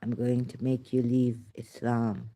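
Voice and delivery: ordinary talk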